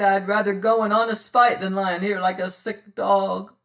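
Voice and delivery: loud, pained sailor; wounded pirate. Acted. Wounded Mings begging to be taken along, loud. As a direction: groan out your bad luck.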